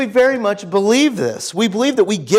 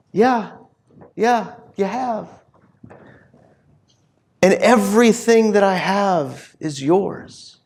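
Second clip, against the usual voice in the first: gentle acknowledgement; slower than usual. Retold or imitated. Father answering his angry son, gently. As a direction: concede tenderly, with pauses.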